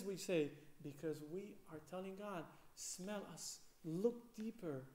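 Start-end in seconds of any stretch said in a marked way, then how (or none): 2.7-4.8 soft plea. Acted. Prayer voiced to God.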